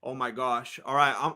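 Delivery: under the breath, barely containing it; excited whisper before the walkout; hushed excitement. Real, not acted.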